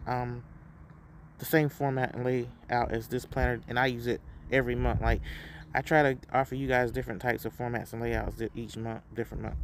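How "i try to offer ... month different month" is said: numb mouth, tripping over words; stumbling with a numb mouth; numb from the dentist. Real, not acted. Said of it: "I can't talk, y'all".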